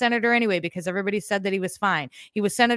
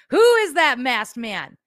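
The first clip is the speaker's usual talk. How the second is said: hammed-up mystery line; 3 semitones higher, 6 dB louder, slower than usual. Jokey line about the clone.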